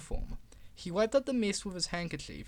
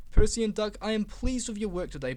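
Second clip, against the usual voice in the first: stern address; 4 semitones higher, 5 dB louder than usual. Acted. Controller addressing engines sternly.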